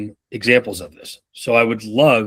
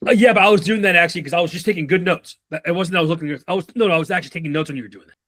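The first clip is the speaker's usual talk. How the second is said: fast, higher defensive excuses; mock defensive employee; 5 semitones higher, faster than usual. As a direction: rattle off excuses like a caught worker. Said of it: "defend themselves".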